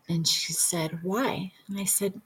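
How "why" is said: hushed, gentle question; quiet whispered why; soft whisper. Retold or imitated. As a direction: ask it barely above a breath. Facilitator asks softly.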